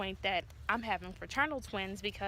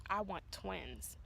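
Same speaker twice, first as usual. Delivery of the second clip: soft slow whisper; 7 dB quieter, slower than usual. Retold or imitated. Husband whispering his wish on their first date. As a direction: breathe it like a secret wish.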